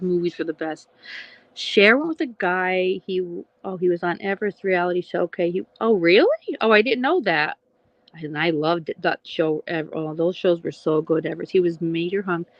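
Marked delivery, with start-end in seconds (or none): 5.8-7.6 surprised. Real, not acted. Reacting to chat news.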